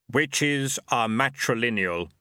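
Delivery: measured voice of the reaper; grim reaper voice. Acted. Death speaks.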